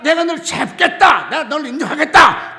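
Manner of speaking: loud, emphatic voice of God; proclaiming God's words. Retold or imitated. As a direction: declare it as God would. (하나님 음성으로 크게 선포하듯)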